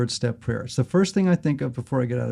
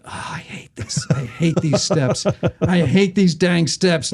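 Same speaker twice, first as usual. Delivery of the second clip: whiny complaint; 4 semitones higher, slower than usual. Retold or imitated. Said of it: "So I'm like".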